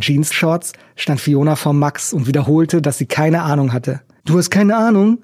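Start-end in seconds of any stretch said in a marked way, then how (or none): 4.2-5.2 ape her words back mockingly; mocking imitation. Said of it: "äffte er sie nach".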